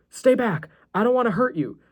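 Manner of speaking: high-pitched alarmed plea; acted fright, voice jumping up; panicked warning. A narrator's reading. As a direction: warn off an attacker. Threatened boy warns attacker with knife.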